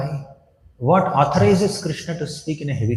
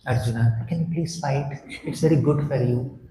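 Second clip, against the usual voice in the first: softer, coaxing, overly polite plea; mock sweet polite; 4 semitones lower, 4 dB quieter than usual. Krishna gently begging Arjuna to fight, mock sweet. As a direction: ask him nicely, tongue in cheek. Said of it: "not gentle, polite ... sweet words".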